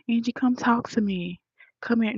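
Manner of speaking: high, pleading call to a friend. Retold or imitated. Broke friend begging her to talk.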